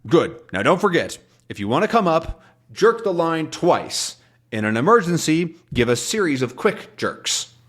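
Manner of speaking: captain instructing. Retold or imitated. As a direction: spell out the signal carefully. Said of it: "captain gives dive instructions".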